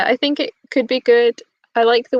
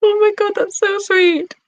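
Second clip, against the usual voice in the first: gushing quote; 9 semitones higher than usual. Retold or imitated. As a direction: coo it like you're touched by a gift. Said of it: "And I'm like".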